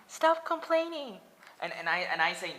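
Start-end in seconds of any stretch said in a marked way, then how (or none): 0.1-1.2 very high, loud squeal of a nagging critic; mocking high shout. Mocking Facebook critics, high loud squealing voice. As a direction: shriek it like an annoying nag. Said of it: "They say".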